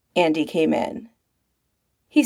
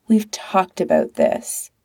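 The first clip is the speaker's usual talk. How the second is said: too gently; slower than usual. Acted. Patrick easing Pete into bad news, too gently. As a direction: let him down too gently. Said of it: "too gently".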